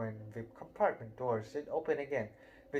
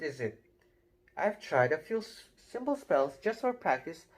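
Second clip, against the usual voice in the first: put-on bossy girl; 3 dB louder than usual. Girl lecturing Ron about spells, lightly bossy and eager. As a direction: rattle it off like a know-it-all. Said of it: "She had a bossy sort of voice".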